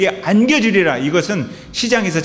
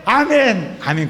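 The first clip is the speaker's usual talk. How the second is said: congregation amens; 7 semitones higher, slower than usual. Retold or imitated. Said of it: "부흥 강사회가 이런 이야기하면".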